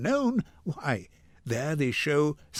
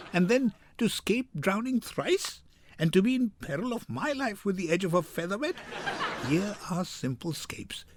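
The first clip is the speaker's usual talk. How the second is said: laughing; 3 semitones higher than usual. Acted. Lancelot laughing over his fortune.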